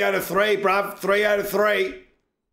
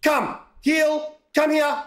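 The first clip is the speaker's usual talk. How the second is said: calling a pet; 8 semitones higher, slower than usual. Pretend. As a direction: call the kitty to heel across the park.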